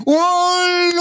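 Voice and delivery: high, stretched call back; wife calling back. Retold or imitated. Wife answering her husband from the window, high call. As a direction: answer his call the same sing-song way. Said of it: "પેલી શીલુ બહાર આવીને એને એમ કે".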